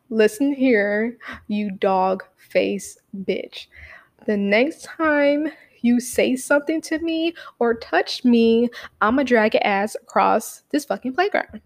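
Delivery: slow, menacing letter read, mildly hammed; drawn-out mock tough threat. Reading her letter to the bully, slow and menacing. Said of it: "And then I said".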